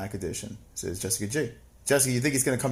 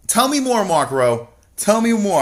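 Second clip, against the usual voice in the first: higher, louder mock-eager plea; 7 semitones higher, 6 dB louder than usual. Teasing a chatter who claims the Night King returns, mock eager. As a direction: beg for the gossip, overdone. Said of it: "mock eager reply to chatter".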